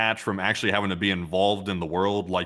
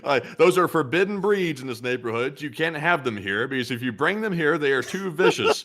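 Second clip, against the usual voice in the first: officious, slightly raised pitch; alien HOA official; 6 semitones higher than usual. Acted. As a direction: issue a mock-solemn ban. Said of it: "in the alien H O As, they're like".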